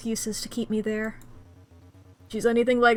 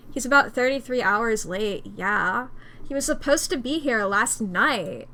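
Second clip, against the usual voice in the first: a lightly voiced bold new Megan; Megan, only a hint of a put-on voice; Megan's voice. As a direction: redo the line as Megan, a bold choice. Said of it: "This is what Megan sounds like now".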